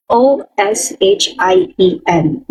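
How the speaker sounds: slow letter-by-letter spelling. Shown as a demonstration. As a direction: spell each letter slowly. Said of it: "ganito yung spelling niya". (dahan-dahang pagbaybay)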